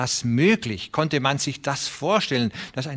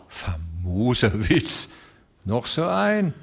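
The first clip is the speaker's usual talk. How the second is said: grim growl; slower than usual. A narrator's reading. Ostermann to the room, growling grimly. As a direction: growl it out sourly, mocking the joke. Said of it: "knurrte grimmig".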